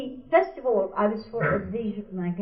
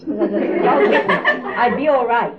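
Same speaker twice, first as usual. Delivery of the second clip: laughing; 7 dB louder than usual. Real, not acted. Laughing at her dog-bite precaution.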